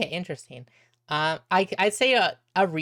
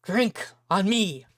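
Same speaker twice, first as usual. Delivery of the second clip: lightly voiced happy drunk, rising to a call; drunken sailor; 3 semitones higher than usual. Drunken sailor offers men a drink, tipsily jovial. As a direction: savour the wine, then hail the crew. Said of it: "go to the drunken sailor man".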